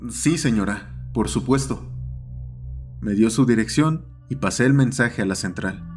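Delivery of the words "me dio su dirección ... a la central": usual speaking voice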